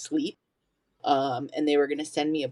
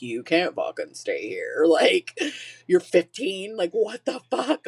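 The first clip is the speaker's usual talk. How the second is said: retold freak-out; 3 semitones higher than usual. College guy telling the runaway girl she can't stay, freaking out. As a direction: pitch climbing into alarmed disbelief by the end. Frat guy learns she's fifteen.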